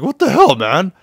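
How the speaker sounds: high, loud shout of outrage; outraged yell. Acted. Punched gang member yelling at Kiryu, outraged. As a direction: yell it like you just got punched.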